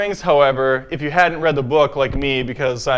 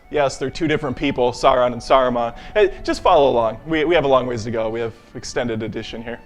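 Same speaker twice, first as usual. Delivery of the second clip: mock tour guide; 3 semitones lower than usual. Guide showing tourists round Middle-earth, mock tour guide. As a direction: lead a dull sightseeing group along patiently.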